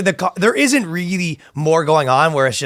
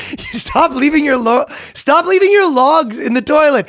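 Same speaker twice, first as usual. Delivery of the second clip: loud, high mock yell; mock scolding; 13 semitones higher, 3 dB louder than usual. Girlfriend yelling at him over the toilet, mock angry.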